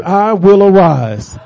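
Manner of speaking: slow, drawn-out, firm declaration; with conviction. Shown as a demonstration. Preacher leads the congregation in declaring they will arise, with conviction. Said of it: "say it with some conviction".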